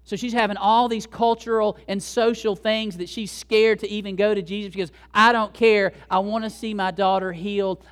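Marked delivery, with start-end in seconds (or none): 5.1-7.8 raised, insistent voice; determined mother. Acted. Mother set on seeing her daughter healed, insistent and loud. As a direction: push past objections as a determined mother. Desperate mother defying social rules.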